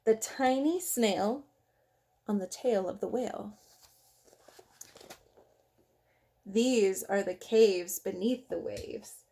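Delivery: lively, sing-song picture-book reading; reading to children. Acted. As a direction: read the rhymes aloud to little kids.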